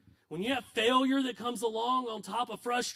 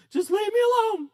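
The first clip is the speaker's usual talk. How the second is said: sulky daughter; 12 dB louder than usual. Retold or imitated. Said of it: "and she goes".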